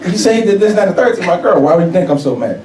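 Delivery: acted-out teenage outrage; indignant anger. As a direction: argue back, worked up. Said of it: "why are you so mad".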